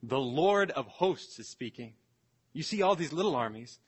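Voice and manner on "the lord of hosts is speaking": mildly thundering, measured proclamation; a touch of divine authority; voice of God. Acted. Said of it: "with his thundering voice from heaven".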